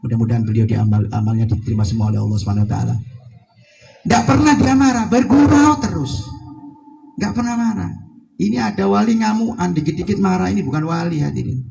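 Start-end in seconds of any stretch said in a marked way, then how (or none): 4.1-7.9 emphatic. Real, not acted. Preacher insisting on saint's patience.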